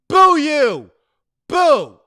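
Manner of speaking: loud, high booing; booing the mail thief, loud. Real, not acted. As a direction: boo them like a crowd.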